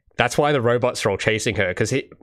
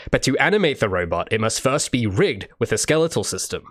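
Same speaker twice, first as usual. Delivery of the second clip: YouTuber voice. Acted. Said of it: "YouTuber voice time".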